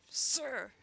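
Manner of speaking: crisp shout of a soldier to his commander; calling out. Acted. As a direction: snap to attention and shout it.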